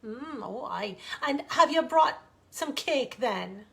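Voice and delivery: a hint of a sly Scottish lilt; a light fairy queen voice. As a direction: tease the child about cake. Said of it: "she asked".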